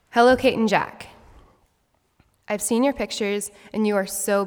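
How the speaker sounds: a light hint of an Irish granny's accent; grandma's Irish accent. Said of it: "say that in her heavy Irish accent".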